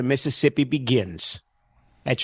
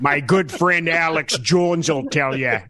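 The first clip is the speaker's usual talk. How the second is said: Jesse Ventura impression; 3 semitones higher, slower than usual. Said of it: "trying to do the wrestler governor".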